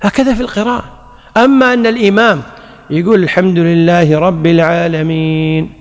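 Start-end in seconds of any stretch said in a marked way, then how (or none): 3.2-5.7 slow recitation. Shown as a demonstration. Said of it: "بعدين يسكت".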